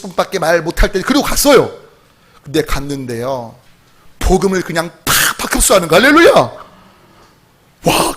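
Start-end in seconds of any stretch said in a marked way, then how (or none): 2.4-3.5 softer, lower, slower repeat of 근데 갔는데요; hushed slow retake. Shown as a demonstration. Pastor repeating the line to the congregation, low and slow. 5.9-6.3 할렐루야 shouted high and loud; joyful shout. Real, not acted. Pastor shouting praise to the congregation, excited.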